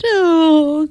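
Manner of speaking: a drawn-out unhappy groan; reluctant groan. Acted. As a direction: moan it like you're sick of it all. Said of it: "Camilla groaned".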